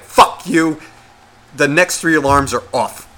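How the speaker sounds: snapping at the phone; telling off the alarms; angry. Retold or imitated. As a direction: tell the phone off. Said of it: "all angrily".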